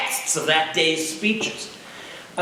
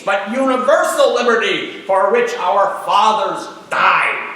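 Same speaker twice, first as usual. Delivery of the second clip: senator's oration. Retold or imitated. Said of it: "but try to imagine".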